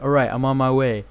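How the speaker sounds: lightly imitated American soldier voice; American accent. Gamer mimics his soldier's radio reply, in an American accent. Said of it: "He had an American accent".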